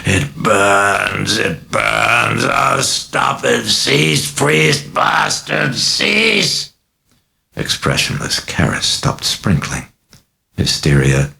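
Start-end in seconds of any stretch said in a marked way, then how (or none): 0.0-1.4 high shrieking demon pain; demon bellowing in pain. A narrator's reading. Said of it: "bellowing in terror and in pain". 1.4-6.7 high, slow demon shriek. A narrator's reading. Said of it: "bellowing in terror and in pain".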